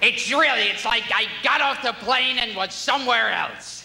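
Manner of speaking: a hint of a squawking comedian; Gilbert Gottfried impression. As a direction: rant about Canada like a cranky comic. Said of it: "every time Gilbert Gottfried's performs".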